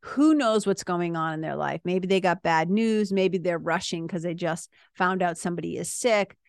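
calm, reassuring talk to an agitated partner; wife calming an agitated partner in the car, reassuring; soothing the partner. Retold or imitated. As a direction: talk him down gently. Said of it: "I'll say to him".

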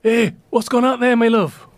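loud, high-pitched call from the kitchen; husband calling out. Acted. Husband in the kitchen calling to his wife, loud high holler. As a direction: holler through to your wife. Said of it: "My husband in the kitchen".

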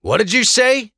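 a menacing challenge; growl. Acted. Blackcoat threatening the prisoner, mild growl. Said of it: "a Blackcoat growled".

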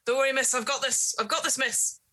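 a hint of a gruff servant; old gardener. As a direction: reassure the lady while wrestling her. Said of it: "And he's like".

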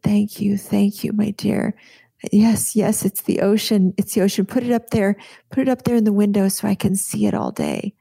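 voicing a grateful elderly patient; grateful old patient.

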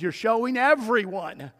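ordinary talk

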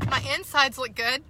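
just swallowed a drink; talking after drinking juice; after a big gulp. Real, not acted. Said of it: "Sorry, I'm taking a drink".

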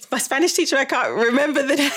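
embarrassed giggly admission; laughing. Real, not acted. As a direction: giggle through the words, embarrassed. Laughing at forgetting a name.

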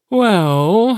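long, high, drawn-out well. A narrator's reading. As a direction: stretch the word out. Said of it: "he drew out".

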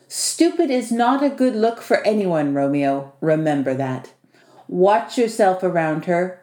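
lightly voiced teasing host turning to warning; a hint of mock-menacing protector, phrase ends dropping; Vasily. Host warning his young guest about the girl, lightly threatening.

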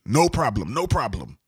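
quick easy assurance, hint of Jamaican accent. Contractor agreeing to keep the client's kitchen running, light Jamaican accent. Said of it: "I put this Jamaican accent".

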